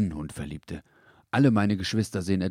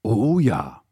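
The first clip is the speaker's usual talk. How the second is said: hasty, louder eager yes; eager agreement; 3 semitones higher, 8 dB louder than usual. A narrator's reading. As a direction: rush to agree. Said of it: "sagte der große Hund jetzt eilig zustimmend". (eilig zustimmend, lauter)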